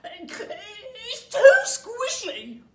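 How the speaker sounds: very slow, loud, high chewing complaint; mouth full. Acted. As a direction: grumble through the mouthful. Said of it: "talking with his mouth full".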